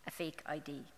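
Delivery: hushed conspiratorial whisper. Real, not acted. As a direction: whisper it like a secret. Hushed aside about fake ID.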